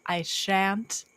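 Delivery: slow, prim, offended huff; mock haughty. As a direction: act scandalized, drawn out slowly.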